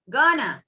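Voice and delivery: "Gonna" as one quick word; reduced. Shown as a demonstration. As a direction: squash "going to" into "Gonna". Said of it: "Instead of saying".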